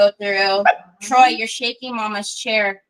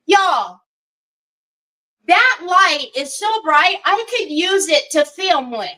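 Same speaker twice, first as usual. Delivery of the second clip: excited disbelief; 5 semitones higher than usual. Real, not acted. Telling viewers how bright the light was.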